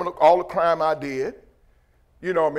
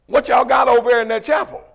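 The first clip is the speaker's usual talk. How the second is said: higher-pitched mock guard's demand; demanding officer; 5 semitones higher, 4 dB louder than usual. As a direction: imitate an officer questioning from across the yard. Officer demanding answer from running prisoners.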